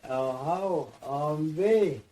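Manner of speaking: high, loud yell as the rock comes; rising alarmed call; shouted warning. Retold or imitated. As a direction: holler out a heads-up. Worker calling before slamming rock.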